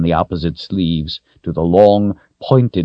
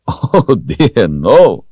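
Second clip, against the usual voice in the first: loud, high amused denial; laughing; 6 semitones higher, 6 dB louder, much slower than usual. A narrator's reading. Wizard laughing off the girl's fear, amused. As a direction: laugh away the very idea. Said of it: "he laughed".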